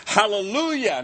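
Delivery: loud, high cry of Hallelujah; shouted praise. Acted. Preacher voicing heaven's multitude, shouting. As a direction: proclaim it high over a multitude.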